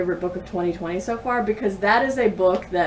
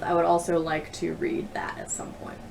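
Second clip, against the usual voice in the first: whispered aside; 6 dB quieter than usual. Real, not acted. Quiet aside about a new book.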